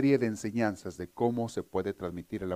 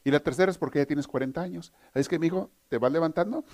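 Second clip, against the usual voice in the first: mother's punchline; 3 semitones higher than usual. Retold or imitated. Joke mother answers her forty-year-old son, firm. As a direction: lay it out to him like a no-nonsense mom. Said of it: "la mamá le contesta".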